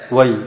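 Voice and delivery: وي alone, then a full pause; stop after wayy. Shown as a demonstration. Teacher shows readers' pausal form, stopping on وي. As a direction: cut off after وي, before كأنه. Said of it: "يقف على كلمة".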